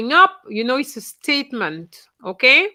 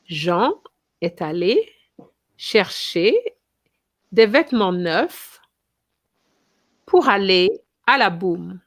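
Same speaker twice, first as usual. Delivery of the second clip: phrase by phrase; 3 semitones lower than usual. Shown as a demonstration. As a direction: break "Jean est allé chercher" into separate chunks for the class. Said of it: "so we can go through the example".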